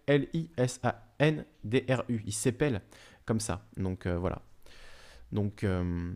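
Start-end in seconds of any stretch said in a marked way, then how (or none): 0.1-2.2 spelled out. Shown as a demonstration.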